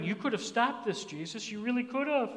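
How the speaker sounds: soft, hushed reproach to Jesus; gently sharing. Acted. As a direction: confide the hurt softly. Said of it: "they were just sharing".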